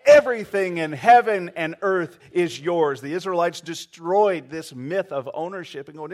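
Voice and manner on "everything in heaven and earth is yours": louder, full-voiced declaration; wholehearted. Shown as a demonstration. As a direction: say it with your whole heart. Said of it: "Say it wholeheartedly".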